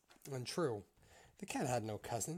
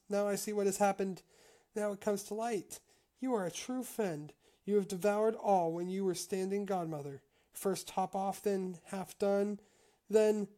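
higher, louder, mounting indignation; rising accusation; 8 semitones higher, 7 dB louder than usual. A narrator's reading. Mouse accusing the cat of devouring all, indignant. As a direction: build the charge up to a cut-off last word.

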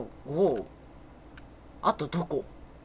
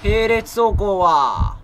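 loud playful telling-off; mock scolding; 2 semitones higher, 12 dB louder than usual. Player scolding teammate for driving side by side, loud mock telling-off. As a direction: scold them loudly like a traffic cop.

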